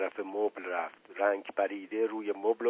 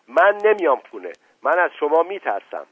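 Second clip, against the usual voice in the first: loud, higher-pitched refusal; frightened yell; 6 semitones higher, 8 dB louder than usual. A narrator's reading. Girl hiding behind father from mother, frightened yell. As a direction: cry out in fearful defiance. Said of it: "فریاد زد".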